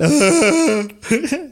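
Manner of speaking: high-pitched wail imitating screaming asleep; imitated sleep scream. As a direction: mimic your own muffled dream yell, very high. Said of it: "empecé a sentir como el". (imitando un grito agudo entre sueños)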